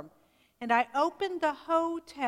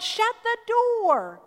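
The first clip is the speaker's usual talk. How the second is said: sharp yell to shut the door, higher, louder and slower; 9 semitones higher, 6 dB louder, slower than usual. Retold or imitated. Customer yelling at the one who opened the door, loud yell. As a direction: bark it like someone freezing in the draft. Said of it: "someone yelled".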